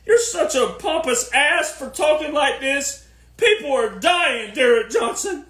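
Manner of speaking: high, whiny scolding of Derek Johnson; mock offended critic. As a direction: play an outraged critic, hammed-up. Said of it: "people go".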